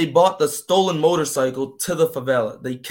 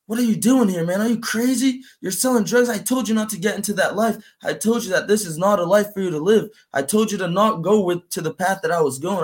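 raised, heated scolding, a bit higher; brother losing it; 5 semitones higher than usual. Retold or imitated. Older brother scolding his little brother for dealing, heated. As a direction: scold him like an angry big brother. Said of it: "So then he got crazy".

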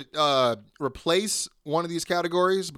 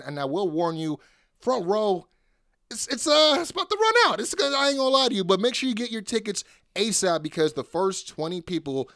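hyped event announcement; promo ad read. Acted. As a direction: pitch the show like a radio ad.

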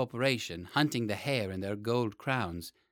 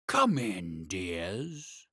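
growling dragon guarding treasure; 5 semitones lower, much slower than usual. Acted. Lonely dragon welcomes children.

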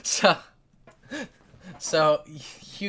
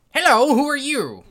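higher, louder greeting; inventor greeting; 12 semitones higher, 13 dB louder than usual. Acted. Inventor greeting the party in his corner, higher. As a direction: call out hello to strangers. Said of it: "and he says".

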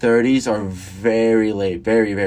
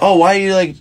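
high, louder mock lady voice; 8 semitones higher, 6 dB louder than usual. A guy mimics a lady questioning him in a thrift store. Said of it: "it's like".

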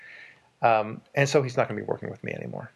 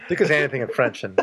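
laughing; 4 dB louder, faster than usual. Real, not acted. Laughing at French joke.

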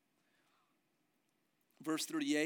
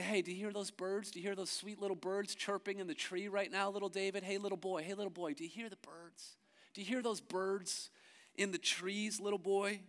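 mocking taunt; 4 semitones higher, 3 dB quieter than usual. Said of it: "started mocking David".

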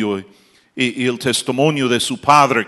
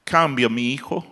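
mother's tearful prayer; 8 semitones higher, 9 dB louder than usual. Retold or imitated. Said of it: "Y ella llorando".

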